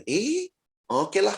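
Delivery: slow, high, drawn-out grudging okay. Retold or imitated. Pastor grudgingly accepting the family's custom, slow and high. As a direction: stretch it out, half-convinced.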